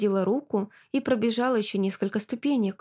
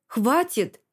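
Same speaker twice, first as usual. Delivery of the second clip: sharp shout; 3 semitones higher, 3 dB louder than usual. A narrator's reading. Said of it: "прикрикнула я".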